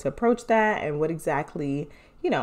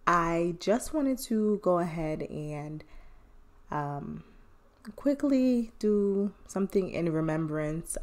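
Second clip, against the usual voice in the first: solemn remembrance; 2 semitones lower than usual. Real, not acted. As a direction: speak gently in tribute to a lost friend. Somber remembrance tribute.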